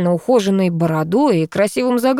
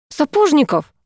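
рявкнула; 9 semitones higher than usual. A narrator's reading. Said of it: "рявкнула я".

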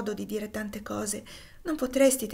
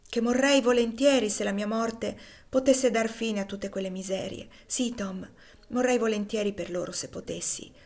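put-on a girl choked with feeling, gently; heartfelt and moved, nearly whispering; 3 dB louder than usual. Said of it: "ripeté la fanciulla con voce commossa".

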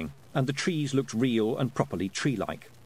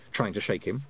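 ordinary delivery

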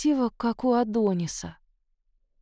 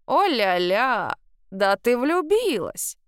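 slow drawn-out teasing exclamation; great-grandmother catching the girl in love, slowly teasing; delighted surprise; 2 semitones higher, slower than usual. A narrator's reading. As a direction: throw up your hands, savour it. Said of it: "всплеснула руками прабабка".

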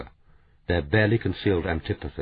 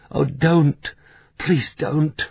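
high pleading cry of anguish; 8 semitones higher, much slower than usual. Acted. Francis begging the quarrelling pair to stop, anguished high cry. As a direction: beg them to stop, pitched up and anguished. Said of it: "Francis' soft, anguished cry".

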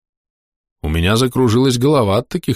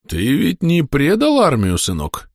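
put-on slow, higher stern old soldier; 7 semitones higher, slower than usual. Old soldier sternly questions the young man, slow. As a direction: question him like a strict father. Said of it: "строго спросил Прохорович".

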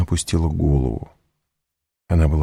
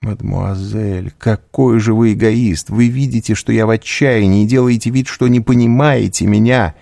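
much higher and louder, near tears; a hurt girl accusing him of selfishness; high, loud, anguished reproach; Valentina, reproachful; 8 semitones higher, 4 dB louder than usual. Acted.

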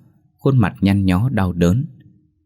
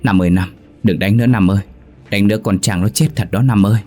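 calling out louder, begging him to stop; frantic pleading; 3 dB louder, faster than usual. Acted. Hương runs in begging Nam to stop beating Trang, a loud frantic plea. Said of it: "vội can ngăn".

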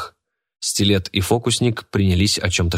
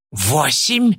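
high, hissed bid; 7 semitones higher than usual. A narrator's reading. Мурена hisses her bid at the rival bidders. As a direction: spit the number out through the teeth. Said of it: "прошипела Мурена".

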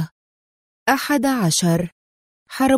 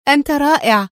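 higher-pitched burst of admiration; admiring exclamation; 5 semitones higher, 4 dB louder than usual. A narrator's reading. Sofia, being untied, praises her rescuer, admiring exclamation. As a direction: cry out in admiration. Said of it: "هتفت في إعجاب".

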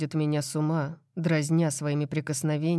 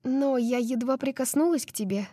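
high, gentle feminine voice; soft woman's voice; 9 semitones higher than usual. Acted. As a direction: say it softly, innocent. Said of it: "мягко говорит она".

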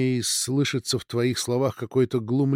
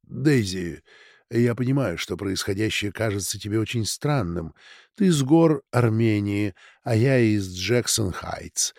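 soothing gentle words; 3 semitones lower than usual. Acted. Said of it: "нашёптывая успокаивающие и ласковые слова".

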